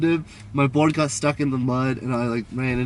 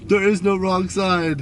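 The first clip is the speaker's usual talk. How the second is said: slow, emphatic mock anger, higher pitched; retold anger; 5 semitones higher, slower than usual. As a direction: insist like the angry man. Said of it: "he's just angry".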